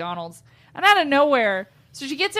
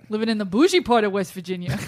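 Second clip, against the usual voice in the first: mock West Virginia accent. Host teases co-host about the home state, mock West Virginia accent. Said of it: "That's not how they talk".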